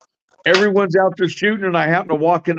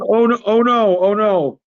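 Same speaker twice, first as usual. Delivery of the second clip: higher-pitched imitation of a fretting neighbor; mock alarm; 5 semitones higher than usual. Neighbor objecting to shooting on the range, mock alarm. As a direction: mimic a worried, protesting neighbor.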